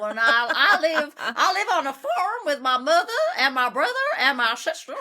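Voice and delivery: hammed-up Deep South farm character; Deep Southern American. Shown as a demonstration. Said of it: "Deep Southern American".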